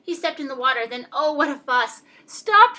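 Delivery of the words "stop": high, loud shout to halt; sudden high-pitched yell; screamed protest. A narrator's reading. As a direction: scream it out as an outraged guest. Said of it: "screamed his guest".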